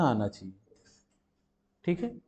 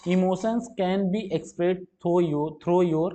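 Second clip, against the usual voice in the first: reading the sentence word by word, very slowly; slow reading aloud; 2 semitones higher, much slower than usual. Acted. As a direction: spell out each word slowly for the class. Reads question aloud slowly. (धीरे-धीरे वाक्य पढ़ना)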